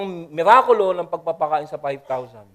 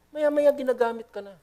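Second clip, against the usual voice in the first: maya-maya ginagamit ka na repeated much higher; higher, emphatic repeat of maya-maya ginagamit ka na; raised repeat; 7 semitones higher than usual. Shown as a demonstration. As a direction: lift the repeat of maya-maya ginagamit ka na well above the first. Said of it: "repeated much higher".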